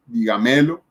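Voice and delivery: "dígamelo" mal acentuado como "digamélo"; acento mal puesto. Shown as a demonstration. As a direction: carga la fuerza en la ME de "dígamelo". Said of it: "No decimos". ("dígamelo" dicho como palabra grave, di-ga-MÉ-lo)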